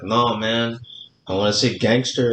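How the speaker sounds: put-on light Mexican accent, laid-back and stubborn; a hint of a Mexican accent as Calito refuses the chair. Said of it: "really good accent, like, Mexican accent".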